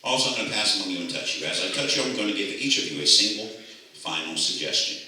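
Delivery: measured stage-hypnotist patter; hypnotic induction. Acted. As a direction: talk them down into trance.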